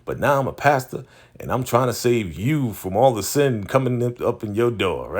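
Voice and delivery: a touch of a preaching pastor; imitating her. Recapping the show, voicing her testimony as mild preacher. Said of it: "she's just like".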